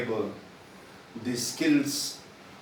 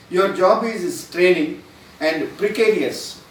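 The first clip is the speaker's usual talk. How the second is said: cheering up; 4 semitones higher, 6 dB louder, slower than usual. Pretend. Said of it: "What he says".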